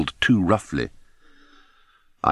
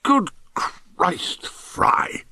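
yelled; 12 semitones higher, much slower than usual. A narrator's reading. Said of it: "Cromie yelled".

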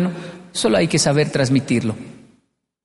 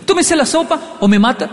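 guilt-tripping mother; 10 semitones higher than usual. Retold or imitated. Mother manipulating child.

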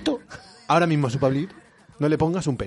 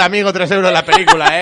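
mock Senegalese accent; 4 semitones higher, 4 dB louder than usual. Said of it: "Solo por lo de".

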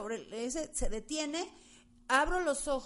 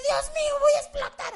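high, loud panicked cry; frantic high yell of panic; panicked scream; 8 dB louder than usual. Retold or imitated. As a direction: shriek it like you're trapped and terrified. Retelling panic in the crashed car.

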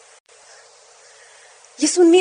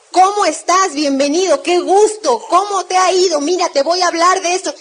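loud greeting; 3 semitones higher, 5 dB louder than usual. Shown as a demonstration. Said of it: "Tres, hablen fuerte".

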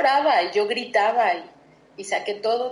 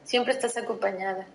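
reassuring past self. Pretend. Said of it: "Le diría a la Iliana del pasado".

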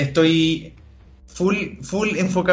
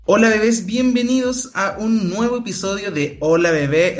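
campy drag queen; 6 semitones higher than usual. Acted. Host's campy show greeting.

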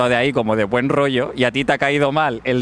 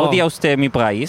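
put-on French accent; 2 semitones lower than usual. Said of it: "tengo un acento raro de Francia".

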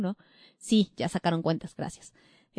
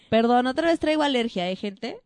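nose tickling, about to sneeze; holding back a sneeze; 2 semitones higher than usual. Real, not acted. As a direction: talk while fighting a sneeze. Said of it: "ya voy a estornudar".

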